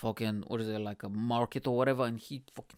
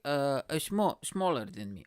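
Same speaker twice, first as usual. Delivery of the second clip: lightly voiced Filipino accent; imitated Filipino accent. Girlfriend telling him he is smaller, light Filipino accent. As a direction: imitate her Filipino English, understated. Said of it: "This is how she kinda sounds".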